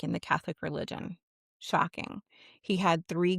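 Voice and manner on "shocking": dry whispered aside. Real, not acted.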